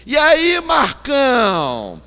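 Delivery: put-on loud, high Rio-accented call across the plane; Rio accent, Baby's greeting. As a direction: belt it out as a brash Carioca. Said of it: "Com a so-, sotaque carioca".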